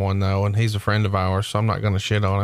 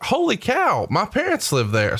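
retold surprise; 10 semitones higher than usual. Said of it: "I'm like".

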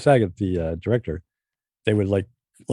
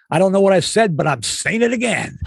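deadpan puzzlement with a laugh at the end; Walken impression; 8 semitones higher than usual. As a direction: Walken amused after a huge laugh at dress rehearsal. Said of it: "He walks by and he goes".

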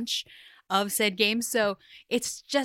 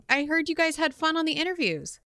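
normal talking voice

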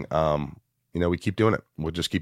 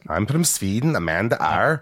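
put-on Swedish accent; 4 semitones higher than usual. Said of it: "I don't do it Swedish".

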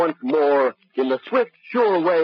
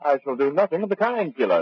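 pompous professor. Acted. Professor coolly addresses the gunman, lofty and prim. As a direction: speak like a prim scholar above it all. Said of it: "he talks like that all the time".

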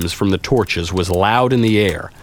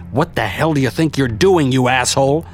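understated shout, a bit higher; inner voice shouting; 5 semitones higher than usual. A narrator's reading. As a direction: scold yourself in a raised inner voice. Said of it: "my inner voice was shouting at me".

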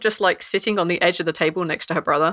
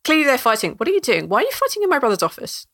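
Demi exasperated; 6 semitones higher than usual. Acted. Demi scolding the fighters in her brother's office, exasperated. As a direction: scold them, clearly fed up. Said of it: "And Demi's like".

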